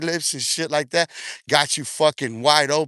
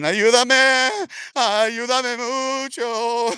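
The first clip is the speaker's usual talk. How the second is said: mock scream; 7 semitones higher, much slower than usual.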